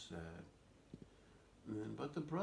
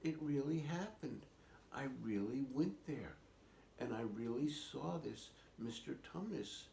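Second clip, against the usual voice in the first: lightly voiced girl insisting, pitched up; mildly protesting, higher voice; insistent little girl; 6 semitones higher than usual. Little sister insisting to disbelieving siblings, mildly indignant. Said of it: "And she said".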